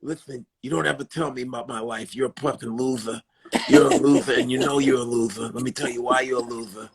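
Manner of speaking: lightly imitated scolding boxer; Tyson. Podcast host berating a guest as Tyson, lightly done Tyson voice. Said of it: "he's like this".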